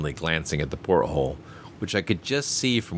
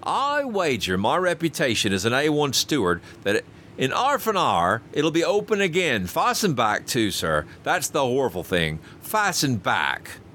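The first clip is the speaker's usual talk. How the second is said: lightly voiced steward, higher and pleased; triumphant steward; 6 semitones higher than usual. Steward Robert smugly predicting the port will open. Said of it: "continued Robert triumphantly".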